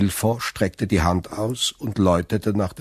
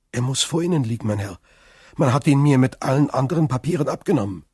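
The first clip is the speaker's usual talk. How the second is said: put-on higher, eager young sailor; earnest Dantès; 6 semitones higher, 4 dB louder, much faster than usual. Accused sailor explains to prosecutor, earnest. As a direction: answer readily, pitched up.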